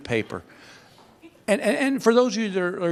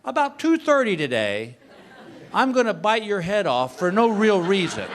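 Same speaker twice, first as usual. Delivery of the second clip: mock cheerful warning; 2 semitones higher than usual. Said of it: "You would say".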